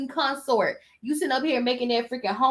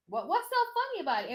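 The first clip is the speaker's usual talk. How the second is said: much softer, faster, half to herself; soft, quick repeat; 6 semitones higher, 8 dB quieter, faster than usual. Real, not acted. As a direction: mutter it quickly, still baffled. Asks again, much softer.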